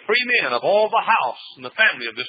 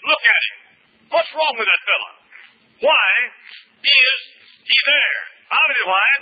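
higher and louder, almost shouting; rising preaching cry; 6 semitones higher, 3 dB louder than usual. Real, not acted. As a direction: build the plea to a cry over the lost man.

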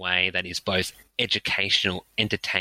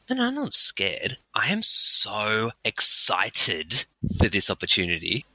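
self pep talk. Pretend. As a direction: talk yourself into excitement. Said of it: "if you tell yourself".

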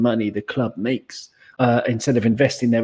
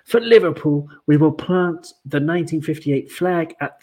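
grand announcement; 2 semitones higher than usual. Shown as a demonstration. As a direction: proclaim it like a rallying call. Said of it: "I would do it in a Manchester accent, but I can't".

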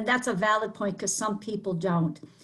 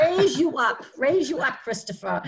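excited praise; 4 semitones higher, 3 dB louder than usual. Shown as a demonstration. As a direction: raise you up lifted high and loud. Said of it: "repeated louder, praising".

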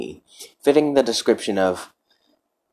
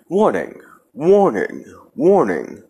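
rising higher, louder alarm call; alarm warning; 5 semitones higher, 4 dB louder than usual. Acted. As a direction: sound the alarm, urgent. Alarm warning in file intro.

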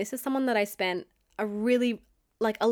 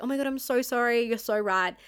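appeasing apology; 3 semitones higher than usual. Retold or imitated. Girlfriend placating her boyfriend after he snapped, mock apologetic. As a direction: imitate yourself caving and apologising. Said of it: "went straight back into the mode of".

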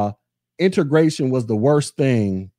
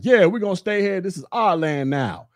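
higher, cocky mock declaration; mock triumphant; 5 semitones higher than usual. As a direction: parody a smug victory cry. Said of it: "all black people is like".

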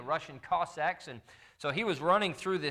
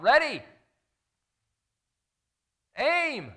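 loud, high barked orders: Ready! Aim!; shouted commands; 9 semitones higher, 7 dB louder, slower than usual. Acted. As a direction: call it out like an emperor ordering a firing squad. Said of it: "he heard Napoleon call out".

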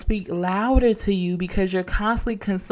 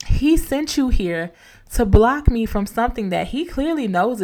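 defiant rebuke to fear. Pretend. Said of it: "We gotta take a moment and say".

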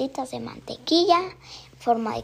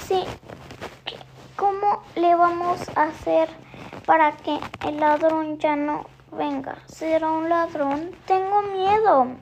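higher and louder, a frightened plea to grandma; scared granddaughter; 5 semitones higher, 5 dB louder than usual. Acted. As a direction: make Inés sound anxious about the thief. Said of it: "Inés dijo".

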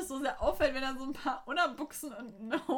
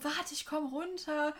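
drawn-out, higher reply, not really yelled; half-hearted stretched call; mock calling back; 4 semitones higher, slower than usual. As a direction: imitate calling down from afar at normal volume. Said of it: "hätten die ja richtig laut brüllen müssen".

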